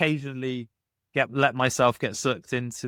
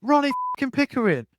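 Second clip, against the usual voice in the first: a higher, louder mock yell with a put-on voice; Ronnie Pickering, furious; 5 dB louder, faster than usual. Road-rager repeating his name angrily after "Who?", roaring it higher. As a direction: spit the name out in outrage. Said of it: "He's like".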